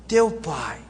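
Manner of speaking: "Teu pai" low, set apart by silence; pointed TEU. Shown as a demonstration. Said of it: "Olha essa expressão".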